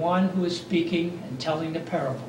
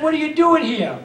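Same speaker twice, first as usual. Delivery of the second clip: raised, higher voice, almost a rebuke; rebuking question; 6 semitones higher, 4 dB louder than usual. Acted. The Lord confronting Elijah in the cave, raised stern voice. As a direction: call him out sternly from above. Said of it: "Not a rebuke".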